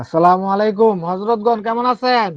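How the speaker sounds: slow, loud greeting to the audience. Real, not acted. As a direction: greet the whole room, slow and full. Host greets callers on air.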